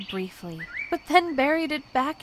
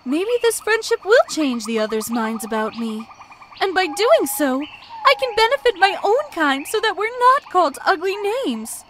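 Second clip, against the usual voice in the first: hopeful thoughts; 7 semitones higher, 6 dB louder than usual. A narrator's reading. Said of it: "she thought to herself".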